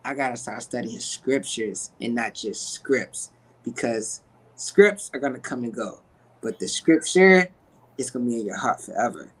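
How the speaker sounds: words catching with real emotion; getting emotional. Real, not acted. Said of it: "My bad, I didn't mean to get emotional".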